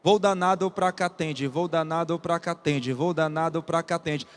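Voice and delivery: steady chugging train beat; rhythmic recitation. Acted. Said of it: "ele cria um ritmo".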